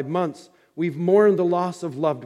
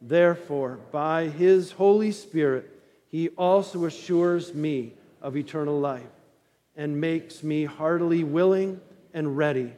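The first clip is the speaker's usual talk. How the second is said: unison catechism recitation. Acted. Congregation recites catechism with pastor.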